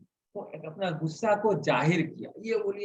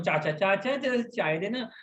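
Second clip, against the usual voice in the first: Rajasthani tone; 2 semitones higher than usual. Retold or imitated. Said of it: "Rajasthani tone में".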